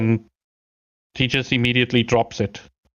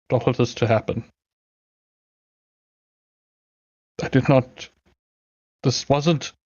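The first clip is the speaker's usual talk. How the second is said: remorseful knight. Acted. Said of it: "he's like".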